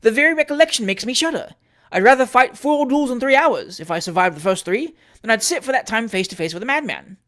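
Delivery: high, loud horrified outburst; loud exclamation. Acted. Trott loudly playing the terrified victim for onlookers. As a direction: proclaim the horror for all to hear. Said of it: "exclaimed Trott aloud".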